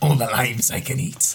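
fake pirate voice, put-on pirate accent. Voicing a pirate who joins a mercenary corps, in a pirate accent. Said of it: "I don't know if I can hold this accent together".

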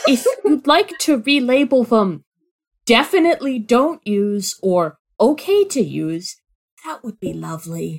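put-on fish creature character voice. Voicing a fish-person archivist in a roleplaying scene, fish-person archivist voice. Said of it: "That their description is literally hot fish person archivist".

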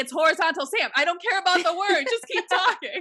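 high, impatient screaming. Retelling screaming at the phone at the person on the call, retelling own screaming. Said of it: "And I'm screaming at my phone".

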